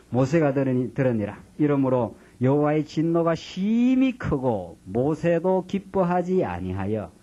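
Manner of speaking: slow, measured Bible reading; solemn scripture reading. Acted. Pastor reading Numbers to the congregation, slow solemn reading. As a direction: read it out slow and weighty like a pulpit text.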